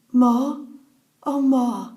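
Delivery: imitating a smiling, happy cry; retold joyful recognition. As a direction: call out to a long-missed mother on seeing her. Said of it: "her face was wreathed in smiles".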